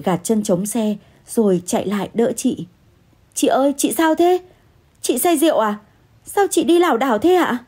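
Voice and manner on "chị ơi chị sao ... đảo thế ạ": higher-pitched, worried questioning; alarmed concern. Acted. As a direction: ask anxiously, voice lifted high. Narrator runs over to fallen woman.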